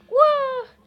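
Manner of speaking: high drawn-out wow; surprised wow. Real, not acted. Streamer amazed by a sudden play, slow wow.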